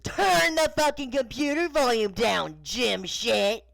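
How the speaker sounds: furious dad yelling, high and loud; full-volume scolding shout; angry yell. Acted. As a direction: holler it at your son. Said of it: "yelling at his son".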